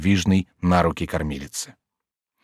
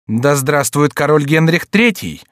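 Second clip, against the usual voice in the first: high, slow, ringing proclamation; exclaiming; 5 semitones higher, 4 dB louder than usual. A narrator's reading. Catherine hailing her son as king, exclaiming. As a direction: hail the new king loudly. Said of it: "воскликнула тогда Екатерина".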